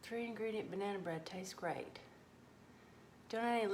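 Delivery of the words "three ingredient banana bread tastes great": unvoiced whispered reading. Real, not acted. Cook reading a viewer comment, whispered. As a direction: hush it like an aside.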